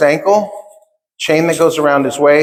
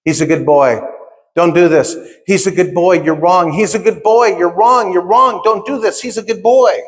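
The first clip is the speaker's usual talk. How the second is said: imitated mother's plea, climbing higher as it repeats; retold crying plea; 4 semitones higher than usual. Crying mother defending her son in court, pleading. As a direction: plead insistently, building to a high, desperate pitch. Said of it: "she's crying".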